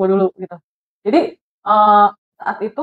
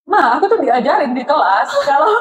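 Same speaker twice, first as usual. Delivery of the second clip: laughing; 5 semitones higher than usual. Retold or imitated. Retelling childish demand, laughing.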